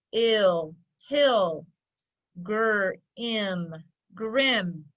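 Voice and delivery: each part held and separate, "gr", "im", then "grim"; sounding out. Shown as a demonstration. Teacher ready to read with pupils, sounding out each syllable. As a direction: sound out "Ill, hill, gr-, im, grim" with pauses between parts. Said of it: "We're ready to read".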